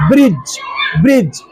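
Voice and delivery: "ब्रिज" with only a j at the end; silent d. Shown as a demonstration. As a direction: glide from vowel to j in "ब्रिज". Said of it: "डी को क्या पढ़ेंगे".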